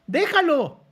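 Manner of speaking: high, loud and emphatic; loud, exasperated "leave him"; loud urging. Real, not acted. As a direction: shout at her to just leave him.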